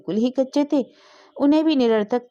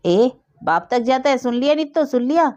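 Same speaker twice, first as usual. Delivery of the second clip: high, loud indignant yell; loud outraged shout; 6 semitones higher, 4 dB louder than usual. A narrator's reading. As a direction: shriek it out, scandalized. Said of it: "खूब जोर से चिल्लाकर बोली". (ज़ोर से चिल्लाकर, गुस्से में)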